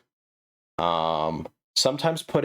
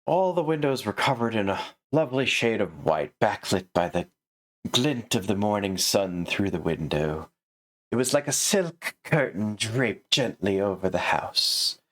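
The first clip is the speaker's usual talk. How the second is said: mock flowery reading. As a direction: ham up the purple prose with a laugh. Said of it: "Now there's your purple plo-, purple prose".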